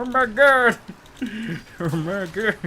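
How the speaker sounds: high, loud laughing exclaim; giggly oh my god. Real, not acted. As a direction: burst out laughing.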